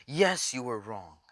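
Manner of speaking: forceful, drawn-out villain taunt; villain's outburst. Acted. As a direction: burst out, then draw out each accusation. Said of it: "he bursts out and says".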